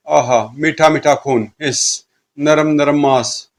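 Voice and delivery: slow, savouring monster voice; drawn-out, hungry delight; gloating fiend. Acted. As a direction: relish each word slowly like a hungry ghoul. Fiends relish blood and flesh.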